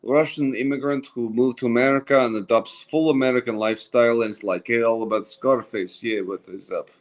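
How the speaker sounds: lightly put-on Russian accent. Shown as a demonstration. Actor explaining his film role to a friend, Russian accent. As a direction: play a Russian immigrant, accent kept light. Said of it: "I play a Russian immigrant".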